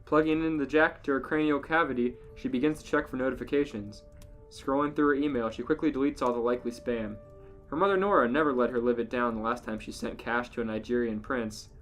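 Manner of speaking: ordinary delivery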